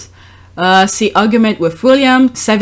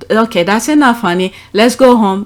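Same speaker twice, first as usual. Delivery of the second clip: put-on gentle to kids. Shown as a demonstration. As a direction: ask the child kindly to leave. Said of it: "there's different way you speak to kids".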